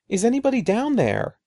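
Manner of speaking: high, loud call down the stairwell; scared boy yelling for help; screaming. Acted. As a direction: shout down into the dark, scared. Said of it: "Eddie screamed".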